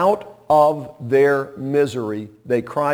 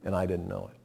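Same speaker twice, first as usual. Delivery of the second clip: softer, hushed reflective musing; quiet wonder; 3 semitones lower, 8 dB quieter than usual. Retold or imitated. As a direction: wonder aloud, hushed and awed. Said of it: "And he said".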